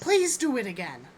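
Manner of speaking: put-on polite child's plea. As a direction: ask like a child just reminded of manners. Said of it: "We say please".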